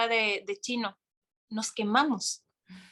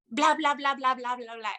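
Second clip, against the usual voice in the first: mock yelling gibberish. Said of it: "Y empezó a gritar".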